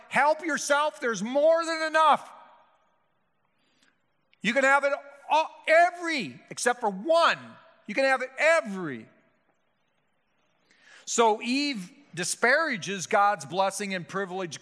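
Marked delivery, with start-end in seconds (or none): 0.1-9.1 generous God. Retold or imitated. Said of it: "So, so God's like".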